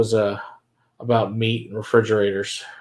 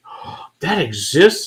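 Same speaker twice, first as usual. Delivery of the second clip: drawn-out, higher retold disbelief; higher, slow mock amazement; mild mock surprise; 6 semitones higher, much slower than usual. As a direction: imitate someone slowly taking in a surprise. Retold astonished question from a coworker.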